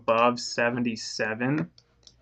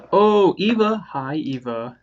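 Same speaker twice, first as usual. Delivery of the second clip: surprised greeting; 6 semitones higher, 6 dB louder than usual. Real, not acted. Someone enters the room.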